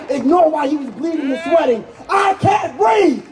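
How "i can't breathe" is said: high, drawn-out cry; acted plea cried out slowly to the crowd; anguished plea. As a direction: cry out the dying plea, stretching the words. Voices a dying man's plea.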